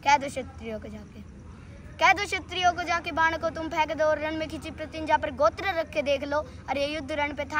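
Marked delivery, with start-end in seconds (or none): 0.0-1.2 low, held-back verse lead-in; low-voiced recital. Low first take of verse. 2.0-3.1 raised, driving declamation; full-voiced recital. Full-voiced repeat of verse.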